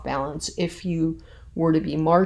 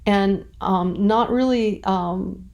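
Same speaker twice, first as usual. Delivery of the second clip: higher, flustered and halting; perturbed paraphrase; 3 semitones higher than usual. Pretend. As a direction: fumble through it like she's rattled. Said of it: "a character who's a little bit perturbed".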